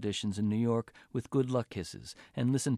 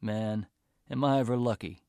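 sarcastic. Acted. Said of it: "a pretty good grasp on sarcasm".

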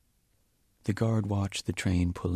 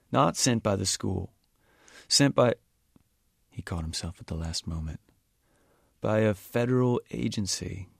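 agitated Lowboy; 4 dB louder than usual. Acted. Lowboy tells the Sikh about the agency, tense and louder. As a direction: insist on the conspiracy, barely holding back.

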